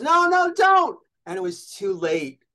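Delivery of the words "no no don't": urgent no. Retold or imitated. Harry stopping the luggage handover.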